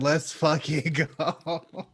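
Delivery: slow, laughing let's go. Retold or imitated. Hyped after the post-credit scene, laughing slowly. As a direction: drag it out through a laugh. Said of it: "I was like".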